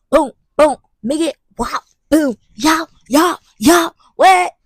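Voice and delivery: loud, punchy hype chants; hyped up. Pretend. Knocking out her classes, loud hyped chanting. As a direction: pump yourself up like knocking out homework. Hyping herself finishing classes.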